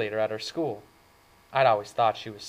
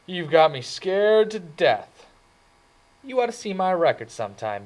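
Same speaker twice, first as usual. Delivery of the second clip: higher, louder hammed-up fright; mock fear; 9 semitones higher, 8 dB louder than usual. A narrator's reading. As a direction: ham up being scared. Dally mocks her threat.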